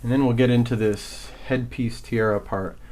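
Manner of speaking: winded, catching breath between phrases; talking while still panting. Real, not acted. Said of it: "I'm out of breath from running downstairs".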